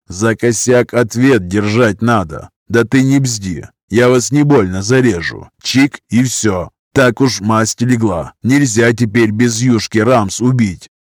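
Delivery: slow, heavy prison-slang threat; lightly voiced gangster, slow and cold; menacing criminal thug. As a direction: lean in and threaten coldly.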